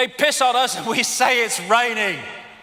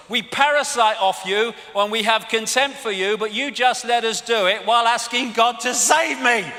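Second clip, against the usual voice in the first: mock royal voice; 3 semitones higher, 4 dB louder than usual. Voicing the royals' contempt.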